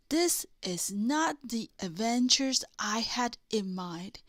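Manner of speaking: hushed grumble, unvoiced; grumpy whisper. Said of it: "he said grumpily".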